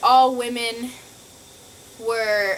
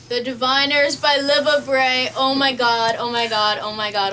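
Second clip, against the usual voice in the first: shrieking jackpot winner; 2 semitones higher, 6 dB louder than usual. Real, not acted. Excited book reveal, repeated exclamation.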